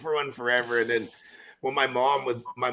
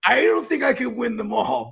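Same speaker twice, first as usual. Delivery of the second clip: loud; 7 semitones higher, 3 dB louder than usual. Retold or imitated. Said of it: "you go".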